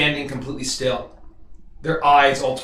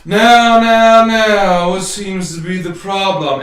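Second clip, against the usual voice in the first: commanding voice; 3 semitones higher, 6 dB louder than usual. Acted. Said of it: "you hear a voice say".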